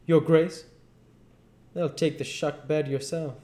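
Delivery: high, loud sneering "Your Grace"; mocking King. King mocking the Duke, sneering and high. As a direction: sneer the title, then drop it. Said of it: "He says".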